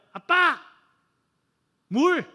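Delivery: a little one wakes in the night asking for water; child calling for water. Retold or imitated. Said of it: "그 다음날 밤엔 그래요". (물 달라고 높고 크게 외치는 아이)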